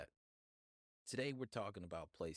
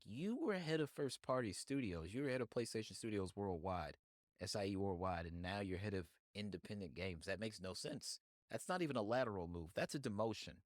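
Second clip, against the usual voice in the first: raised, incredulous retelling of public reaction; indignant disbelief. Retold or imitated. Everybody reacting to Shu's new job, indignant disbelief. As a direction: protest it as an outraged onlooker, mildly heightened.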